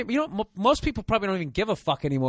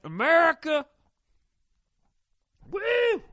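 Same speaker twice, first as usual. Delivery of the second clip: redneck cheer; 6 dB louder, slower than usual. Acted.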